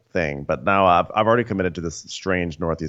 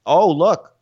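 mock Denise; 8 semitones higher, 6 dB louder than usual. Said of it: "So she's like".

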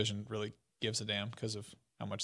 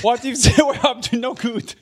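much higher and louder mock French presenter; hammed-up press conference host; mock Ubisoft announcer; 10 semitones higher, 12 dB louder than usual. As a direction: pitch it like a grand press reveal. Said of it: "doing impressions of, like, Ubisoft announcing stuff".

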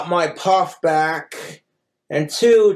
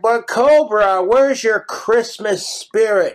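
slow, slightly higher mock questioning; mimicked nagging people; 4 semitones higher, slower than usual. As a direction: imitate people chiding you, drawing it out. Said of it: "and people are like".

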